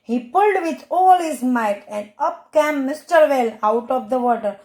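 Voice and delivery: put-on slow, careful read-aloud for children; slow reading to a class of kids; slow storybook reading. A narrator's reading. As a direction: read each word out clearly and slowly for young pupils. Teacher reads English story aloud.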